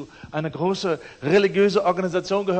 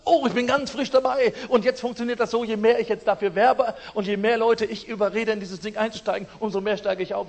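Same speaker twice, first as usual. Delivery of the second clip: eager recruiter; 4 semitones higher, 4 dB louder than usual. Retold or imitated. Eager recruiter quoted in dialogue.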